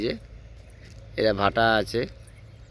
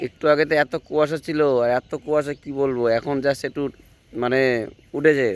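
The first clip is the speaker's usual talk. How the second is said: talking with a toothbrush in mouth; while brushing teeth. Real, not acted. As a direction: speak around the toothbrush. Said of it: "দেখো এখন লেগে আছে আমার মুখে যে brush করছি".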